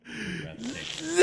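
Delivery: high, loud, slow shriek; shrieking jackpot winner. Real, not acted. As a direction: shriek it like you just won. Shrieked compliment, crying laugh.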